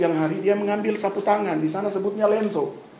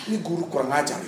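muttering with a laugh; 3 semitones lower, faster than usual. Retold or imitated. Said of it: "saya mikir lama".

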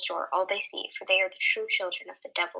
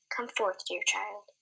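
softer, tender calling; gentle summons; 5 dB quieter, slower than usual. Acted. Old leader beckoning Summer, tender and soft. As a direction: welcome her kindly.

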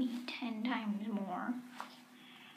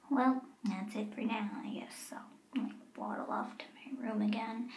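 whispering; 3 dB quieter than usual. Acted. Signing off quietly.

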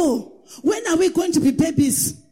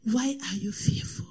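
whisper; 6 semitones lower, 7 dB quieter than usual. Acted. Quiet, unvoiced rhetorical question.

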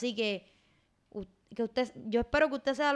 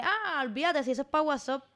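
lightly mock a careless "oh, forget it"; brushing it off, pitch lifted; dismissive shrug; 3 semitones higher than usual. Host imitating careless texters, dismissive. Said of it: "tomar una actitud de".

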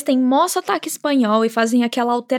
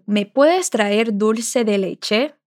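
slow model request; much slower than usual. Shown as a demonstration. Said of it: "ele lança o pedido".

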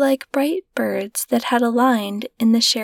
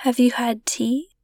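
softly. A narrator's reading. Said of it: "answered softly".

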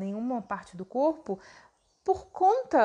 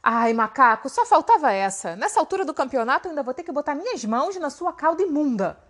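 enojado; 2 semitones higher, 5 dB louder, faster than usual. Acted. Bima enojado e irritado.

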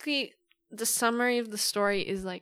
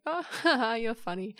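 flirty laugh; 3 semitones higher than usual. Retold or imitated. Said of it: "laughing, and she's like".

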